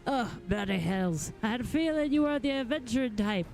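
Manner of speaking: lightly voiced rough-spoken, grumbling craftsman; a hint of salty grouchiness; cranky smith. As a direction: play a mildly irritable working smith. Reads a grumpy smith's dialogue.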